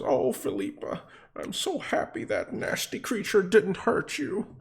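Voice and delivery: high falsetto lady cooing to her pet; doting cat owner. Acted. Owner petting her rescued cat, happy and doting. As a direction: coo in a put-on high voice. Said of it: "And she says".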